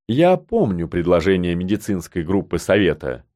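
low, composed reply; unperturbed. A narrator's reading. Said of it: "невозмутимо продолжил Пер". (невозмутимо, низким голосом)

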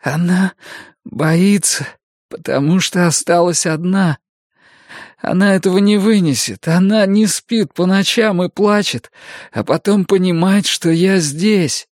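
put-on high, frantic young man pleading; desperate youth begging for help; Mikael panicking. Mikael frightened.

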